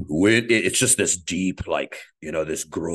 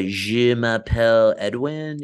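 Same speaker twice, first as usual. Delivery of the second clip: put-on French accent; 3 dB louder than usual. Introducing himself in mock French.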